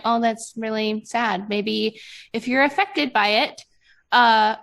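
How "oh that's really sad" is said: flat, unmoved "Oh, that's really sad"; cool indifferent remark; detached shrug. Retold or imitated. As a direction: say it like you couldn't care less. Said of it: "I would have been like".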